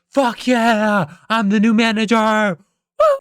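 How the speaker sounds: loud, high triumphant yelling; SpongeBob. Acted. Employee claiming the manager job, high screaming celebration. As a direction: shout it with long exultant vowels. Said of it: "He's, like, screaming in everybody's face".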